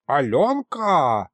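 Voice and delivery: медленный заинтересованный хрип старого колдуна; протяни имя хрипло, с интересом; хриплый оклик. A narrator's reading. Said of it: "заинтересованно прохрипел колдун". (старый колдун хрипит имя девушки, медленно и заинтересованно)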